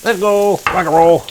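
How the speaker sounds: loud, rising hype count to a whoop; excited countdown. Real, not acted. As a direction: cheer as they hit the pan. Hyped counting into pan.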